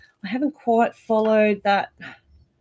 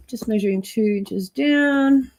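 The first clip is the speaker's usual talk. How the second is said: pin in mouth; 2 semitones higher than usual. Real, not acted. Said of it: "I've got a pin in my mouth now".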